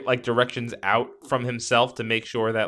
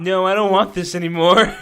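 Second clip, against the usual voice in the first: mock whimpering plea; 7 semitones higher, 5 dB louder than usual. Viewer begging scene to stop.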